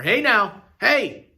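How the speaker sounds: sudden loud startled yell; alarmed shout. Acted. Startled shopkeeper at raised rifle.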